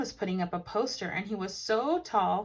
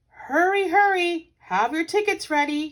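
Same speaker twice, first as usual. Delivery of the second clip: calling out; 9 semitones higher, 9 dB louder than usual. A narrator's reading. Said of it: "called a voice".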